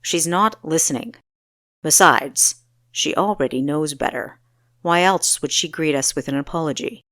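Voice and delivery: put-on a stern young ruler with a cutting jab. Pantheus arguing with Equestria.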